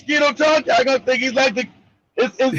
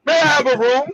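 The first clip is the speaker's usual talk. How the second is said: put-on upper crust accent. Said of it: "upper crust".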